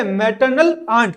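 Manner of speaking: slow, clear pronunciation. Shown as a demonstration. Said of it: "बोलो मेरे साथ".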